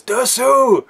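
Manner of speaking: high, far-carrying shout; captain spotting Dersu through the trees; calling out. Retold or imitated. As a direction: call out on spotting him. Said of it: "and he says".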